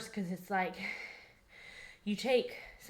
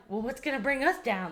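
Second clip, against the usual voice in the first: high, eager and cocky; excited; 5 semitones higher than usual. Retold or imitated. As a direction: ask it like nothing can stop you. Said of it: "so excited".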